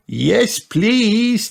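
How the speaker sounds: cheering. A narrator's reading. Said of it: "cheered Peppa and George".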